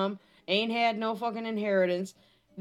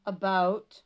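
put-on broad singsong kids theatre; slower than usual. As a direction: talk down like a kids' show host. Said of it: "the story for today".

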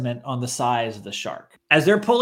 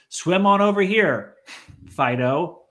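high, coaxing call to a dog; calling a lost pet; 4 semitones higher than usual. Retold or imitated. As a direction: coax the dog to swim over. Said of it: "He's like".

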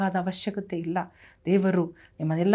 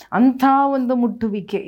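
ಅಂಥ ಒಂದು ಮುಟ್ಟುವಿಕೆ repeated higher and louder; emphatic repeat; 5 semitones higher, 7 dB louder than usual. Acted. Pastor repeating to the congregation, higher and louder. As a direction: press the phrase home harder the second time.

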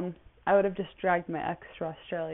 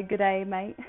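a light, badly faked Australian accent. Podcast host greets Australian listeners in a badly faked Australian accent. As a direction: butcher an Aussie greeting on purpose. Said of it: "I'm gonna butcher the accent".

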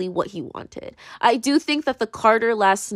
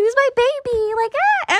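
doting squeal. Retold or imitated. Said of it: "I'm just like".

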